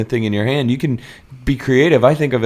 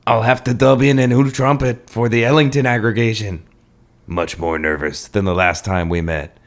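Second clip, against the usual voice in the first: put-on French accent. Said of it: "my incredibly accurate French accent".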